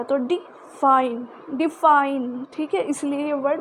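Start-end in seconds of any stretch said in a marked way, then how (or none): 0.2-1.3 डिफाइन drawn out slowly, light डि then stressed फाइन; slow stress demo. Shown as a demonstration. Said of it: "उस पर जोर दे के बोला गया". 1.5-2.5 डिफाइन a touch louder, punching फाइन; stress on FINE. Shown as a demonstration. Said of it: "उस पर जोर दे के बोला गया".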